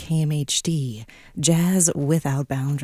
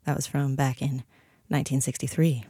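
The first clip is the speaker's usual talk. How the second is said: ordinary delivery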